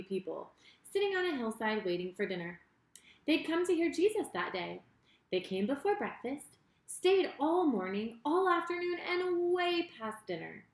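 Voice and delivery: put-on lively storyteller reading to kids; story narration for children. A narrator's reading. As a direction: tell it like a bedtime Bible story. Reads Bible story to children.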